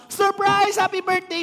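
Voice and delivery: loud, high party yell of surprise; surprise shout. Retold or imitated. Friends leaping out at his birthday, shouting surprise. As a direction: burst out shouting surprise at him.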